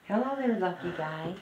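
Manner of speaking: high, loud cooing at a kitten. Real, not acted. Owner greets the new kitten in high baby talk. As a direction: coo up high like greeting a puppy.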